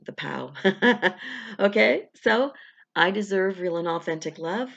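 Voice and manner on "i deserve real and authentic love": deliberate affirmation with a rise on deserve. Shown as a demonstration. Coach modelling the affirmation for viewers, deliberate. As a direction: lean on deserve as you affirm. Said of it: "We'll say it three times".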